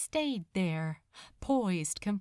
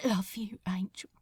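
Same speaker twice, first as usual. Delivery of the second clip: splintered casual. Acted. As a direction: say it lightly though breaking. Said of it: "equally casual, equally splintered".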